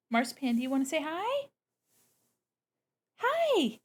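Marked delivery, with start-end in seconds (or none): 3.2-3.8 high squeaky greeting. Real, not acted. Voicing the kitten's tiny high hello.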